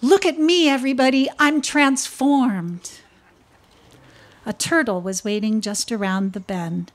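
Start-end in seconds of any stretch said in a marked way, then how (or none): 0.0-2.9 proud, thrilled snake; delighted snake. Acted. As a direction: show off your new lace. Snake shows off its lace.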